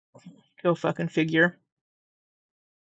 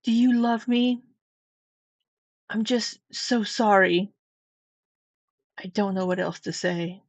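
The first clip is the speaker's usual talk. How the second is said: mock pleading read; 2 semitones higher than usual. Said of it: "dramatic reading of these text messages".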